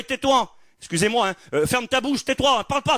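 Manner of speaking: high, scornful silencing; dismissive hush. Retold or imitated. Crowd telling the beggar to shut up, high and scornful. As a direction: brush off a nobody. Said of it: "on va lui dire".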